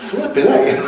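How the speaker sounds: high, laughing disbelief; laughing exclamation. Retold or imitated. Retelling his shock at the throw, laughing. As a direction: blurt it out through laughter. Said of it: "I said".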